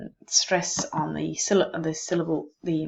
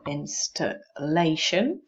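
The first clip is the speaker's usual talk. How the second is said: "Installation" slowly in parts, rising on "lation"; syllable division demo; slower than usual. Shown as a demonstration. Teacher checking where the syllable begins, syllable demo. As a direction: break "Installation" before "la", drawing it out. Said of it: "beginning of the syllable".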